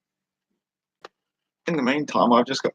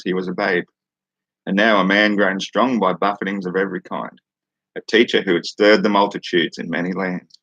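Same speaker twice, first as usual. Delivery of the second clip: measured, even read-aloud cadence; scripture reading; 3 dB louder than usual. Acted. Streamer reads listeners a random book passage, measured scripture reading. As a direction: read it out as solemn verse.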